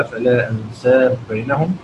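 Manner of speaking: أنساب chanted with a short long-vowel; measured recitation, أنساب barely stretched; short madd. Shown as a demonstration. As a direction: keep the vowel of أنساب brief, merging into بينهم. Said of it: "يقرأ هكذا".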